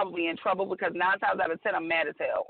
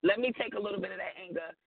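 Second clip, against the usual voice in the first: imitating caring husband; 4 dB quieter than usual. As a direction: play the gentle man coaxing her. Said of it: "But I want you to be like".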